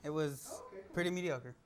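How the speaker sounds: laughing echo. Real, not acted. Echoing guest's quip mockingly.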